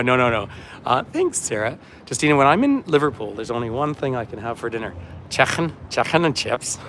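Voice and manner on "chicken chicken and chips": playful attempt at a Scouse accent; Liverpudlian accent. Shown as a demonstration. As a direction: put on your best Liverpudlian. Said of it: "my best Liverpudlian accent".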